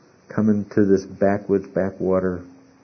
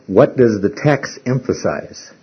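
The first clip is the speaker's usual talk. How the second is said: slow, weighing each word; a teacher slowing down to make the point; slow and deliberate; slower than usual. Shown as a demonstration. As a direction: spell the question out slowly. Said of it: "what we would have to do is go back in and say".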